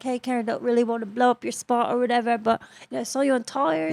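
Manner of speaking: put-on hushed, discreet approach in a light Aussie accent; soft retold murmur; imitating quiet Australian. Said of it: "He was, like, really quiet".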